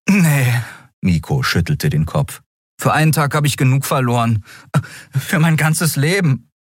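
put-on sulky boy. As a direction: sulk about losing. Miko's voice.

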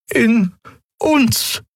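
high, slow, earnest heroine voice; high pleading young woman; Xia, urgent young voice. A narrator's reading. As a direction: press them for the truth, voice lifted high. Xia touches her chest.

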